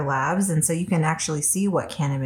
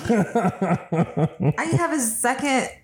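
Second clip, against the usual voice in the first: stoned; much slower than usual. Real, not acted. Edibles kicking in, laughing.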